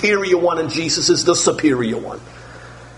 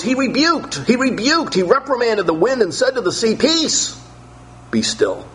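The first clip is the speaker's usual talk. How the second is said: higher, commanding rebuke of the wind; Jesus rebuking the storm; 7 semitones higher than usual. Acted. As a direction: speak as Jesus silencing the sea. Preacher voices Jesus rebuking storm.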